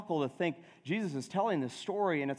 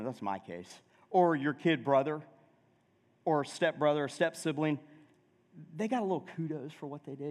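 ordinary talk

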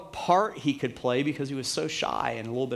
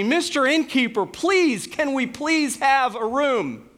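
high, drawn-out imitated plea; hammed-up begging, pitched way up; loud pleading; 9 semitones higher, 3 dB louder, slower than usual. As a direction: plead loudly like a child overacting in a play. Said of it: "Joseph said loudly".

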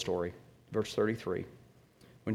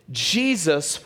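ordinary talk

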